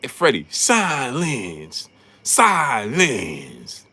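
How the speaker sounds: mock Stephen A. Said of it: "He gonna be like".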